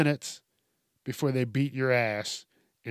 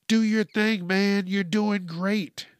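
higher, louder hyped-up supporter; mock cheering; 6 semitones higher, 5 dB louder, slower than usual. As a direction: cheer him on with mock enthusiasm. Voicing supporters cheering him on.

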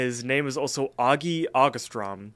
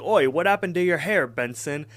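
louder, higher mocking call; teasing taunt; 5 semitones higher, 4 dB louder than usual. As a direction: poke fun at him, punching it up. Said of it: "Augie makes fun of him".

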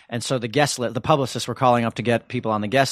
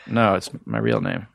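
a lightly voiced, much lower Swayze, matter-of-fact; imitating Swayze. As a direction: drop the voice down low to play the star. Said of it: "and he's like".

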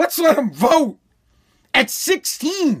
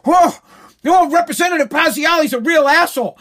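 mock pissed-off; 3 semitones higher than usual. People reacting to a rude representative, mock outrage. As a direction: imitate indignant people crying out in protest. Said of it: "People would be pissed, like".

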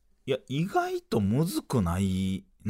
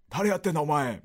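higher-pitched mock Edokko retort; Takeshi impression; 4 semitones higher than usual. Comedian challenging his partner's odd character, light Takeshi impression. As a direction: lightly mimic a brusque Tokyo comic. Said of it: "俺はたけしさんやし".

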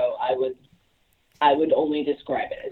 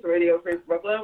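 while brushing teeth; 3 semitones higher than usual. Real, not acted. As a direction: mouth full of toothpaste. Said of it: "I am brushing my teeth".

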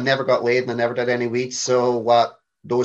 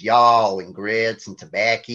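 slow, stereotyped Southern twang; light mock-Southern, drawn out; Southern American accent; slower than usual. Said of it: "we hear the Southern".

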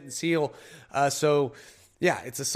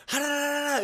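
high tingling babble; 10 semitones higher than usual. Retold or imitated. Imitating tingling on lips.

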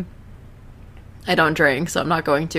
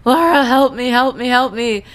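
high, loud hammed-up cry for help; playful imitation of a panicked plea; mock panicked cry; 8 semitones higher, 4 dB louder than usual. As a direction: squeal it like a choking panic. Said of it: "and he's like".

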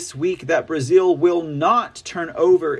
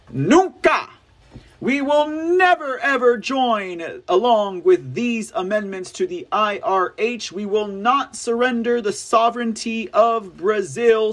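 roaring rallying speech; 4 semitones higher than usual. Retold or imitated. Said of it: "has said unto the World".

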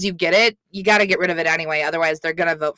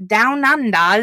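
bad Australian accent; 4 semitones higher, 4 dB louder than usual. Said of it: "your Australian accent is somehow worse".

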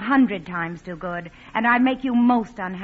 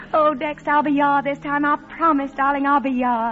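higher, louder, joyful promise; elated; 5 semitones higher, 5 dB louder than usual. Acted. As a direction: gush happily to Dexter. Accepts Dexter's proposal.

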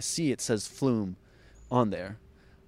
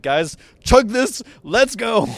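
high, loud rallying yell; urgent shout; 12 semitones higher, 11 dB louder, slower than usual. Retold or imitated. Rushing friends out of a bar, urgent shout. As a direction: shout to rush your mates along.

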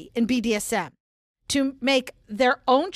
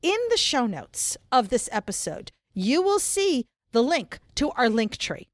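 brisk upbeat announcer read. Pretend. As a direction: read the links like a show announcer. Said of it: "since you want me to use my announcer voice with the links".

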